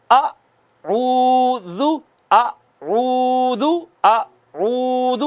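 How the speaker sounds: اعوذ chanted very slowly with rounded lips; Quranic recitation. Shown as a demonstration. Teacher models correct tajweed for a child, slow chant. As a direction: stretch اعوذ one alif long, lips round. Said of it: "پڑھیں گے".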